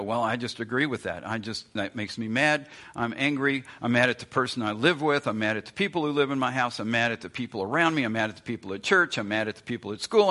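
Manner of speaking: fast, running list of gripes; mock grumbling. Preacher voicing the congregation's petty anger, fast mock gripe. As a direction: rattle off the complaints, half-mocking. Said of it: "and we go".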